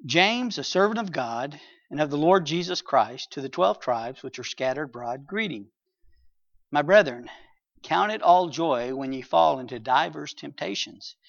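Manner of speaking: solemn Bible reading; scripture reading. Acted. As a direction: read the verses with reverence. Reads scripture aloud.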